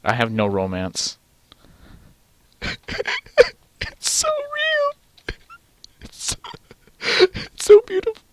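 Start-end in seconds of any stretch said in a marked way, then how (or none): 2.6-3.5 high squeaky laugh. Real, not acted. Squeaky laugh at the game's romance. 3.8-8.2 high, slow squeaky swoon; mock gushing falsetto. Gushing in falsetto over romance.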